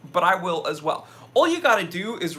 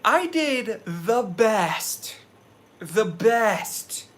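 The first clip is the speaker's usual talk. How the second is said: Swedish chef voice; 4 semitones higher, much slower than usual. Shown as a demonstration. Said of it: "Swedish chef impression".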